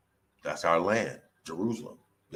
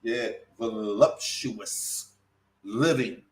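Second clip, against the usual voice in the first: voluptuous drawn out very slowly, softer; said again slowly; 3 dB quieter, much slower than usual. Shown as a demonstration. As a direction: repeat voluptuous at a crawl. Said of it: "Let me say that again slowly".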